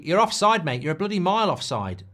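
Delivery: loud yell at the referee; indignant shout; shouting at the screen. Real, not acted. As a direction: bellow it at the TV. Shouting at the telly.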